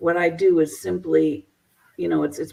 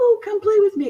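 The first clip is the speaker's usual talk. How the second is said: put-on sweet young girl voice, higher; 3 dB louder than usual. Describing a false influence from the paranormal world: sweet little girl child voice. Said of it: "that sweet little girl child voice saying".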